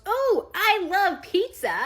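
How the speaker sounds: put-on high, loud, drawn-out kid delight; excited five-year-old. Five-year-old sees pizza commercial, excited kid voice. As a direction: gush like a little kid. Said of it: "My five-year-old goes".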